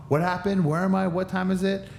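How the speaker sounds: high, bewildered questions after a knockout; confused questioning. Retold or imitated. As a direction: ask as if you have no idea where you are. Acting out his concussed, repeated questions.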